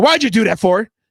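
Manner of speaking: put-on scolding parent voice, stern and reproachful. Retelling a parent scolding a child in trouble: imitating a scolding parent. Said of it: "you be like".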